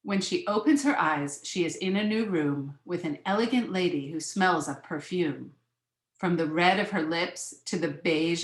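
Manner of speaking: measured picture-book reading; lilting read-aloud of a children's book; story narration. A narrator's reading.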